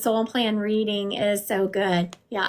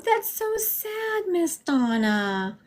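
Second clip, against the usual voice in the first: real sympathy; 7 semitones higher, much slower than usual. Real, not acted. Reacting to viewer's sad news.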